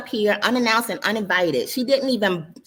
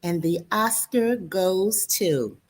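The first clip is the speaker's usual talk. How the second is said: mock announcer; slower than usual. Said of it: "I closed by saying".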